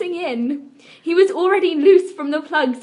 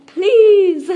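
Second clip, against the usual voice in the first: higher, louder, breaking into laughter; laughing pleading; 6 semitones higher, 8 dB louder than usual. Real, not acted. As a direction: try to beg but crack up. Pleading line dissolves in laughter.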